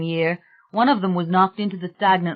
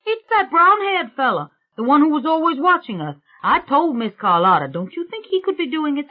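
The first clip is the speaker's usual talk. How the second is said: higher-pitched suspicious workman, settling as he goes on; uneasy workman; 5 semitones higher than usual. Acted. Workman blames the brown-haired fella, uneasy and insistent. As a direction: voice a workman airing his theory.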